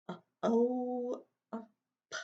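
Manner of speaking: oh, then p, drawn apart; sounding out soap. Shown as a demonstration. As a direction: segment the word soap. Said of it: "sound out".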